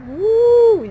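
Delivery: sudden high loud whoop; excited woo. Real, not acted. Gardener whoops at a plant in the pot, excited. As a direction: whoop with delight at what you found.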